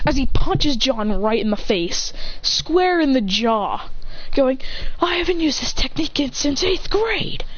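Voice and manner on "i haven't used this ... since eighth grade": high anime boast, stretched at the end; fighter's boast. Acted. Fighter punches John in the jaw, high battle boast. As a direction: raise it high and draw out the last words.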